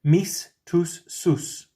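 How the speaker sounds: Mis and tus high, sus falling away; clear model. Shown as a demonstration. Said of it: "your words for my and your".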